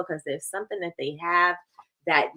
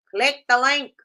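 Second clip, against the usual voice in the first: pushy sales voice; 6 semitones higher, 4 dB louder than usual. Shown as a demonstration. Teacher repeats hook in pushy voice.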